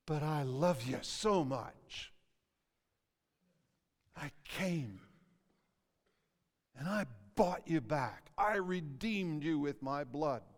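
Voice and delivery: measured, with long pauses between phrases; tender Savior's words. Acted. Preacher voices the Savior who bought you back, tender. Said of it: "what your Savior would have to say to you".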